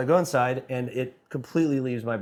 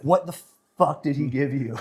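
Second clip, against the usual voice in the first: imitating an alarmed wife; freaking out; 3 semitones higher than usual. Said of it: "freaking out, and she's like".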